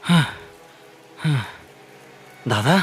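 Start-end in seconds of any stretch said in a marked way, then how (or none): 0.0-1.4 shaken panting. Acted. Passenger panting after the chase.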